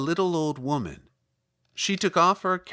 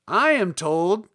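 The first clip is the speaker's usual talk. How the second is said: louder little Munchkin voice; 5 semitones higher, 8 dB louder, slower than usual. Acted. Munchkin tells Dorothy about the shoes, louder. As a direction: speak up like an eager small villager.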